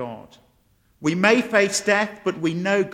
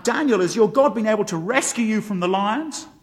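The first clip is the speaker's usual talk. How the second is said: raised, louder acted calling out; mildly acted anguish, pitched up at the end; anguished cry; 3 semitones higher, 5 dB louder than usual. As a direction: call out anxiously for an answer. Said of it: "calls out in an anguished voice".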